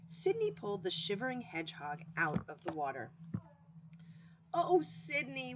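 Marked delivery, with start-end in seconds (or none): 4.5-5.5 high, slow drawn-out wail. Acted. Hedgehog wailing to his rescuer, high and slow. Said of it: "wailed Taylor".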